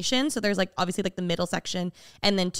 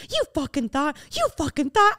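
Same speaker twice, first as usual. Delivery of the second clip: mock taunting jeer; 5 semitones higher than usual. Acts out person taunting the mom.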